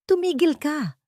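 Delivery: high, cutting "Tumigil ka!"; sharp rebuke. Acted. Soledad cutting off Amaya's lies, sharply. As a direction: slap her down with the words. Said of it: "Isang sampal ng katotohanan".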